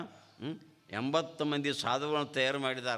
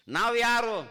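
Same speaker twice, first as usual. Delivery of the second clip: the question thrown out high and loud to the crowd; booming preacher's question; loud rhetorical question; 7 semitones higher, 7 dB louder than usual. Shown as a demonstration. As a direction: call it out so the whole hall hears. Preacher repeats the question louder.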